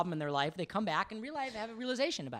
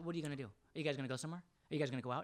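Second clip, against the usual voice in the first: irritated, annoyed tone; 4 semitones lower, 8 dB quieter than usual. Imitating a wife who is annoyed when friends visit: imitating an annoyed wife. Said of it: "for some reason is already annoyed".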